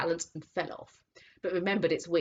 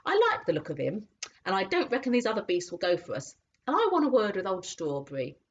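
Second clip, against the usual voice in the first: cockney cabby; 3 semitones higher, 3 dB louder, faster than usual. Acted. Cabby voiced in story.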